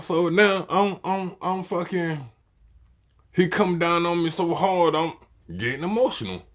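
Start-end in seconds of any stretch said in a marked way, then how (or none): none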